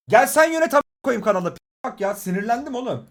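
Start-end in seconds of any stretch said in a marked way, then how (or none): 0.1-1.5 angry. Real, not acted. Angry rant at chat troll.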